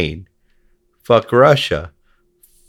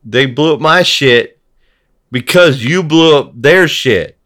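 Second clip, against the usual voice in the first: building from raised to a high, loud shout; pleading louder and louder to make them stop; mock exasperation rising to a high, loud yell; exasperated yell; 7 semitones higher, 5 dB louder than usual. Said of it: "And you're like".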